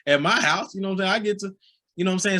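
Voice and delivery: mock kid reasoning it out; imitating the boys. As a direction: boys excusing themselves after seeing the slap. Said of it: "the boys see that, like".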